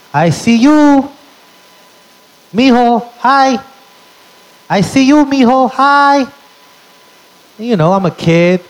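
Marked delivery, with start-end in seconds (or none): 0.1-6.3 put-on high, singsong old grandpa calling out; grandpa's voice. Grandpa teasing his little grandson in a high voice. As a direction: coo playfully at a sad grandson. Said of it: "He would say".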